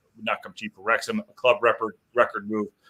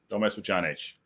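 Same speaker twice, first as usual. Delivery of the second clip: quieter aside, dropping to himself; muttered repeat; 3 semitones lower, 5 dB quieter than usual. Real, not acted. Host repeating the warning to himself, muttered. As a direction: say "mess" lightly under the breath, half to yourself.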